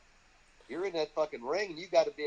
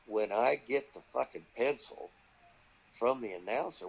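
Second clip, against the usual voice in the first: baffled repeat; 5 semitones lower than usual. Retold or imitated. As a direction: repeat "fucking pencil" as if it makes no sense. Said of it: "Wait a minute".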